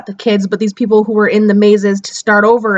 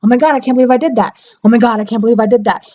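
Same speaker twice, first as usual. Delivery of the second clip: whiny; much faster than usual. Retold or imitated. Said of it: "it sounded whiny".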